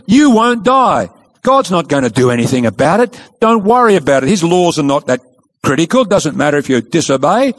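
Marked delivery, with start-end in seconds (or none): 0.1-3.2 dismissive serpent. Retold or imitated. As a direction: wave the danger away like the serpent would. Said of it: "God isn't a just God".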